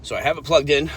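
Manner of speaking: panting, out of breath after cardio; breathless, short breaths between words. Real, not acted. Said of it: "I'm out of breath".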